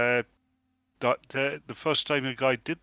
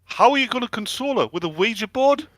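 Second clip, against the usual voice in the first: high, loud disbelieving question; incredulous; 8 semitones higher, 5 dB louder than usual. Real, not acted. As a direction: ask it in shocked disbelief.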